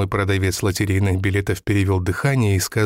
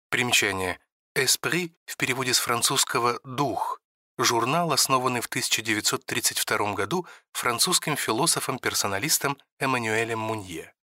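softer, set-apart reading of a note; footnote aside; 7 dB quieter than usual. A narrator's reading. Narrator reading a footnote aloud, softer and detached. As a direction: drop the voice for an editor's footnote.

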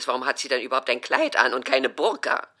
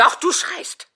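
much higher and loud, cutting in; mother fires back the accusation; shrill loud accusation; 8 dB louder, slower than usual. Acted. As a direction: insist hard that she is yelling. Mother insists loudly.

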